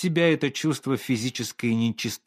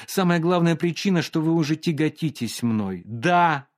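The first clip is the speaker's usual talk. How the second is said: higher, tearful accusation on the edge of sobbing; tearful reproach; 5 semitones higher than usual. Acted. Olga accuses the painter of tiring of her, close to tears. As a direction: accuse him through rising tears. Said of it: "сказала она и зарыдала".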